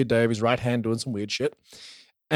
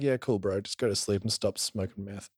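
dismissive; 6 semitones lower, 9 dB quieter than usual. Retold or imitated. Parents dismissing son's snake claim.

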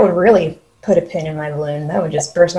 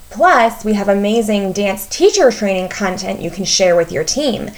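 scripted podcast ad read; polished promotional voiceover; promo read. Acted. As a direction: read it as an announcement, lifting the key items. Reads a promo for the retreat.

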